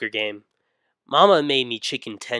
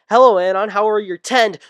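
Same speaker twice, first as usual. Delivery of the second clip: sweet mom voice; 10 semitones higher, 9 dB louder than usual. Acted. Mom voiced greeting son.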